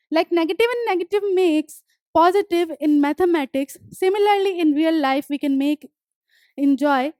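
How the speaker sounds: deliberate dictation pace, each word spaced; slow textbook reading. Acted. Teacher reading the poem notes aloud to students, slow and deliberate. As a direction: read the line out slowly for the class to copy. Reads textbook line slowly.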